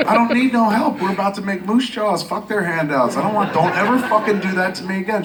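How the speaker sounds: high, worked-up proud refusal; indignant. Retold or imitated. Man refuses handouts from TV network, indignant. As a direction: rant as if mortally offended.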